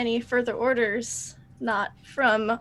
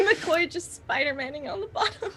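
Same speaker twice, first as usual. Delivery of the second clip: higher voice through giggles; amused laughing; 5 semitones higher than usual. Real, not acted. Player picturing McCoy clinging underneath, laughing. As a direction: say it while trying not to laugh.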